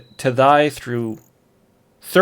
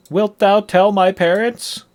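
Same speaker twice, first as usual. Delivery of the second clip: put-on higher, slow worried kid; anxious boy; 8 semitones higher, slower than usual. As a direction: ask fearing the answer. Boy asks fearfully.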